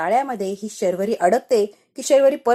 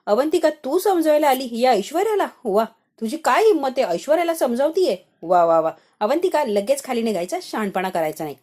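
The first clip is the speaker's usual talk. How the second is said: mildly raised, mock-quarrel voice; staged telling-off, only moderately loud; deliberately loud scolding; 2 semitones higher than usual. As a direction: scold her loudly for an eavesdropper's benefit. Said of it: "आता मोठ्या आवाजात ऐश्वर्या मुद्दाम बोलायला लागलेली असते".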